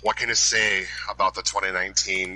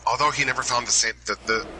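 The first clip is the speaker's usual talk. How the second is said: quick, higher, hurried stumble before restarting; rushed first try; 4 semitones higher, faster than usual. Real, not acted. Nervous inductee rushing his speech before correcting himself. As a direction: blurt it out fast and high, then falter. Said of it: "sorry, although he never".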